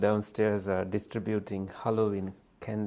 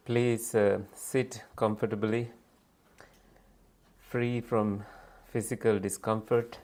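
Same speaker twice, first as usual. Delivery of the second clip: guided meditation. Real, not acted. Leader settling a group to meditate, unhurried guiding voice. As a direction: guide them gently into stillness, phrase by phrase.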